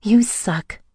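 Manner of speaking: high, playful tease; teasing. A narrator's reading. Happy heroine teases the man she just hugged. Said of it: "I teased".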